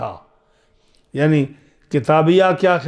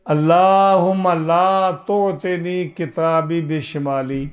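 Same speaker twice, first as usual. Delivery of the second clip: slow prayer recitation; much slower than usual. Acted. Recites supplication for left hand.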